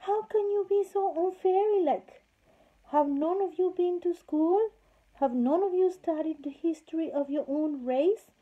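high, loud scolding king; loud, high king scolding the fairies; indignant king. A narrator's reading. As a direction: scold them like naughty schoolchildren.

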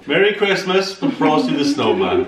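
sing-song presenter voice addressing the camera; teacher voice. Pretend. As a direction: announce it like a teacher to a class. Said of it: "What is Dad doing with his teacher voice?".

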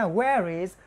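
"where is" run together as "whe-riz"; quickly linked. Shown as a demonstration. Teacher shows students "where is", quickly linked. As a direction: glide straight from "where" into "is". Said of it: "mình luống nhanh nhá".

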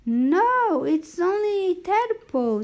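urgent protest. Acted. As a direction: jump in fast and high to protest. Boy protests to alarmed coach.

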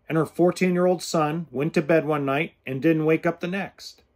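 ordinary delivery

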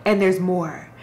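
steady, slightly hushed book reading; reading a novel excerpt aloud to viewers; story reading. Acted. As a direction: read the passage evenly, letting it breathe. Reads book passage aloud.

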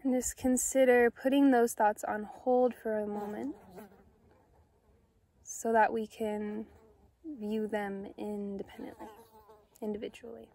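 calm, unhurried meditation guide with long pauses; soothing, measured guided-meditation delivery. Acted. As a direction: gently guide listeners inward, leaving space after each phrase.

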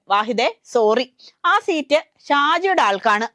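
a touch of mock regret, slowed down; mock apologetic. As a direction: let him down gently with a fake sorry. Party breaks bad news to Wahid.

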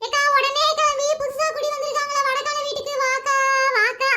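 whiny crying plea down the phone; tearful pleading. Acted. Hostage begs friend to come over, tearful. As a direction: beg with stretched, tearful endings. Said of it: "இப்ப அழுகாம ஒழுங்கா பேச".

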